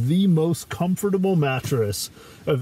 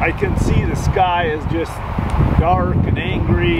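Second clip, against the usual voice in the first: raised voice against wind and rain; talking over storm; 4 semitones higher, 4 dB louder than usual. Real, not acted. Speaking over storm outdoors.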